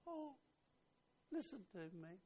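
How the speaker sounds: Jesus crying out in urgent plea, voice rising at the end. Acted. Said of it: "Jesus stood crying".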